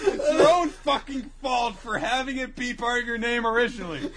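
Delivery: high, laughing through words; laughing hard. Real, not acted. Both crying laughing.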